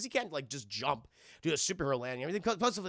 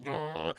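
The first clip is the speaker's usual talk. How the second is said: short mock monster growl; imitated growl; 3 semitones lower, 4 dB quieter than usual. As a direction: growl like someone freaking out.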